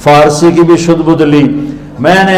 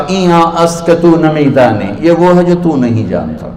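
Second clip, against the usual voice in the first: arrogant reply. Acted. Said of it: "بڑے تکبر سے کہا".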